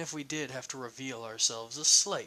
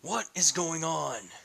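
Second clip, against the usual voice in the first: higher, louder angry rant; furious questioning; 6 semitones higher, 3 dB louder than usual. Acted. Eugene yelling at Ignatius about his rampage, furious. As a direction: let the worry boil into yelling. Heated confrontation escalating.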